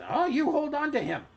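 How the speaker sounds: high-pitched urgent call; flustered shopkeeper in pursuit; flustered gnome woman. A narrator's reading. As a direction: call after a runaway in a high voice. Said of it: "a flustered gnome woman".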